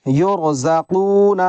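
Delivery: یرزقون recited with a heavy ra; یرزقون with heavy sakin ra. Shown as a demonstration. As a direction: slowly chant یرزقون with a thick ra. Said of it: "را ساکن سے پہلے پیش ہے".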